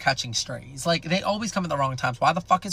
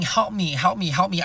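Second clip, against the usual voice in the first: slightly raised mock cry for help; mock scream; 3 semitones higher than usual. Retelling screaming to her friend about the kitchen fire, mock scream. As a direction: plead repeatedly, a half-hearted scream. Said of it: "I'm screaming".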